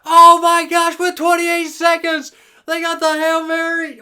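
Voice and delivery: loud, high, hoarse-edged call; shouting while losing the voice; straining shout. Real, not acted. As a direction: push through a failing voice. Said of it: "I'm starting to lose my voice".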